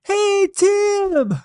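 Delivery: Cajun holler. Acted. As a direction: holler across the rice field in a high Cajun voice. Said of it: "he hollered out".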